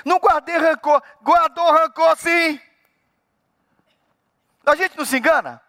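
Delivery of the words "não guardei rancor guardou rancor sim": higher-pitched back-and-forth bickering; mock quarrel with oneself; inner argument. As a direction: argue with yourself, insisting on each side. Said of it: "Você fala assim".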